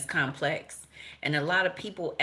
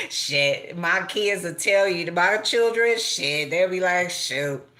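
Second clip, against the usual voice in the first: laughing retelling; 4 dB louder than usual. Retold or imitated. Kids retelling mama's question.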